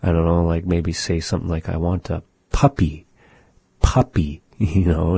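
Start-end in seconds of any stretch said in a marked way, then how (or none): 1.7-4.4 "I want a puppy, puppy" with a big puff on each p; playful, exaggerated puppy. Shown as a demonstration. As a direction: overdo the breath on puppy's p. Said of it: "really exaggerate those".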